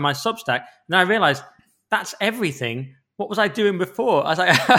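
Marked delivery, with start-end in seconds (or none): 3.2-4.2 laughing. Real, not acted. Laughing at own busy year.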